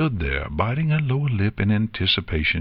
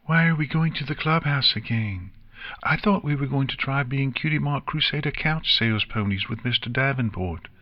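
put-on high young filly voice; puzzled little pony, pitched up; questioning filly; 6 semitones higher than usual. A narrator's reading. Nix asks about the clubhouse, high questioning filly voice.

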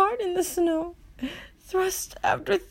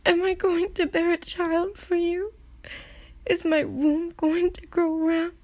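subdued dismay; 3 semitones lower than usual. Acted. Acted subdued aftermath questions.

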